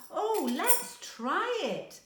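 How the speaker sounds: put-on little girl bursting to dance; excited child. A narrator's reading. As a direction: beg to try it, thrilled. Karimi eager to dance.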